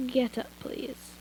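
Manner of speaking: soft, slow and tired; a sighing request; weary sigh. Acted. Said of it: "He looked over at me and sighed".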